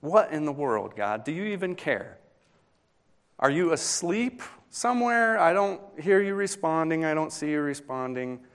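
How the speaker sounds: high, pleading, exasperated cry to God; anguished questioning of God. Pretend. A mourner challenging God who seems to sleep, in a high exasperated plea.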